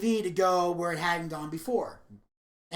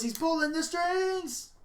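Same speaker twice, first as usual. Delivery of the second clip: creepy puppet master; 9 semitones higher, slower than usual. Acted.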